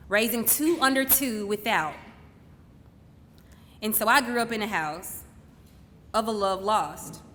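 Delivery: deliberate, poetic stage delivery with long pauses; spoken-word monologue. Acted. Daughter honouring her mother on stage, measured spoken-word delivery. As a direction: let each phrase land before the next.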